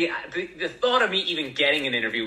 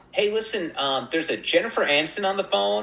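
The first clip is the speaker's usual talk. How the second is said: higher, lightly voiced receptionist; 6 semitones higher than usual. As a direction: pass on a call as a receptionist, higher. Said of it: "our receptionist rings the studio".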